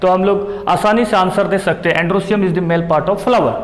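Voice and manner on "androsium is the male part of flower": slow dictation. Shown as a demonstration. Dictating model exam answer.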